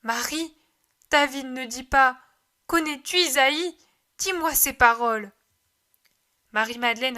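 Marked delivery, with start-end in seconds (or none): 0.0-5.3 calling aloud. Acted. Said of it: "appelle à haute voix".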